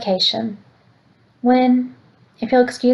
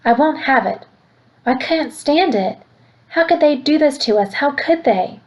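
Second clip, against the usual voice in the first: tearful pleading; 4 semitones higher than usual. Acted. Grandmother breaking down over the danger, tearful. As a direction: let her despair climb to the question. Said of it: "Graham yells".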